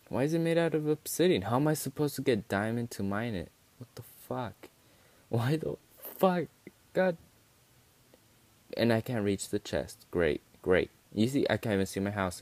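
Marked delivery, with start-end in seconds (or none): 0.1-7.2 high-pitched exasperated complaint. Real, not acted. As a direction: whine in disbelief at the unfairness. Finds obsidian blocking him.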